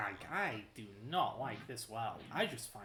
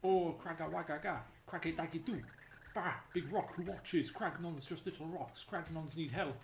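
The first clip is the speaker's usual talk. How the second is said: caveman voice; 4 semitones higher than usual. Acted. Voicing the Cragnon.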